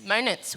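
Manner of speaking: "Moments" slipped into "mo-nuts"; tipsy slip. Real, not acted. Host noticing the tequila slip, "Moments" said as "mo-nuts". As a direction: repeat "Moments" with n for the second m. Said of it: "have more tequila".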